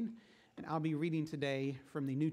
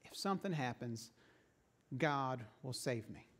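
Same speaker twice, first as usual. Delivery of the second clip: smug calm; 4 semitones lower, 4 dB quieter than usual. Acted. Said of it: "leans back in his chair and smiles and says".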